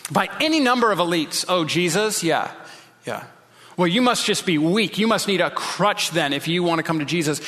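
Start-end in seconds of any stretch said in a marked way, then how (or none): 1.5-7.4 mild scoffing. Acted. Elites scoffing at someone who trusts Jesus, mild mockery. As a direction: scoff a little at a believer's naive faith. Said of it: "scoffing or mockery".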